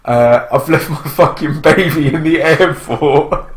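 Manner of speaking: slow, sheepish put-on voice; mock embarrassed confession. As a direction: drag it out as if too ashamed to say it. Imagined mother confessing to stewardess.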